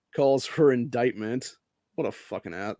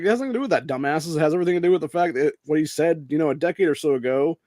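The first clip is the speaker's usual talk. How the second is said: loud, higher, exasperated comeback; mild mock telling-off of the press; impersonating Kyrie, lightly heated; fed-up retort; 4 semitones higher, 4 dB louder than usual. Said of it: "and he's like".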